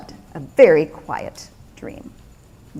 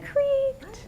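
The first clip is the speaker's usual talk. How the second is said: creaky voice; 11 dB quieter than usual. A narrator's reading. Bed sound acted in narration.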